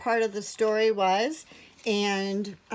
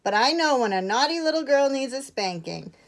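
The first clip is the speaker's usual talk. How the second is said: raised, emphatic scolding; higher-pitched stern telling-off; scolding threat; 6 semitones higher, 4 dB louder than usual. A narrator's reading. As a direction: warn the child off firmly. Bear threatens the naughty girl.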